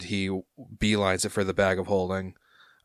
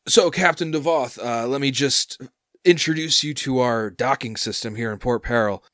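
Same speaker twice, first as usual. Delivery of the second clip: higher, louder chirpy worker; eager dock worker; 4 semitones higher, 4 dB louder than usual. Acted. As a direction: bounce up and explain fees eagerly.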